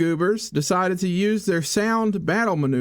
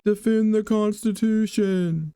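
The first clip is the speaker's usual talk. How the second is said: slow, drawn-out reread; slow deliberate read; 3 semitones higher, slower than usual. Pretend. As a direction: spell out each word slowly. Rereads objective slowly.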